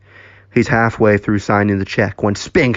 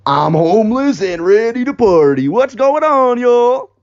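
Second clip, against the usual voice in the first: rowdy party arrival; 12 semitones higher, 3 dB louder than usual. Acted. Bozo arriving to greet his friends, rowdy. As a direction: whoop it up as you burst in.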